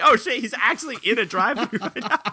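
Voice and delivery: high, loud, laughing disbelief; laughing realization. Retold or imitated. Friend on a call, realizing he's at a drive-thru, laughing loudly. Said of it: "I'm like".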